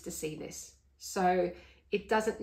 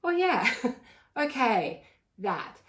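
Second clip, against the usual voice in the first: drawn-out, louder moment of recognition; mild realisation; 4 semitones higher, 4 dB louder, slower than usual. Acted. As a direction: react as if it just clicked. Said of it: "I can look at and go".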